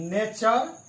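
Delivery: नेचर ending in chur; ture as chur. Shown as a demonstration. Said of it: "आपको चर पढ़ना है".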